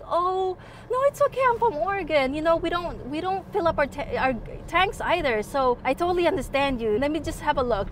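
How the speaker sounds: kind reassurance. Retold or imitated. Kind stranger voiced reassuringly.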